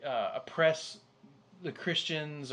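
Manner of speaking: mock Southern worrier; Southern accent. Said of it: "what that accent was".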